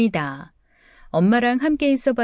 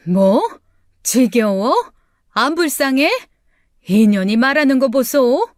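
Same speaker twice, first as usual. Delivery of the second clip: sharp, louder indignant outburst; indignant mother; 3 semitones higher, 5 dB louder than usual. Acted. Mother snapping back at her daughter, indignant and loud. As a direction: bristle at the insult, voice rising.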